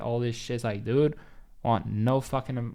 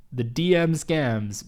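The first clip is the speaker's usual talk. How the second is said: louder, slow, laughter in the voice; still laughing; 3 semitones higher, 5 dB louder, slower than usual. Real, not acted. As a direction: say it through leftover laughter. Still laughing about the scams.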